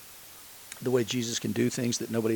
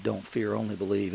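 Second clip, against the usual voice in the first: softer, gentle inner voice; hushed voice of God; 6 dB quieter than usual. Retold or imitated. Pastor recalling God's voice in the hospital, softly. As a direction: let it come like a quiet whisper within. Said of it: "you'd hear the voice of God saying".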